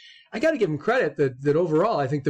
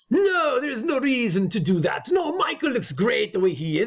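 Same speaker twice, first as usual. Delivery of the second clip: bad French accent; 5 semitones higher than usual. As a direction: fake a French director's accent, badly. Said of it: "I can't do a good accent".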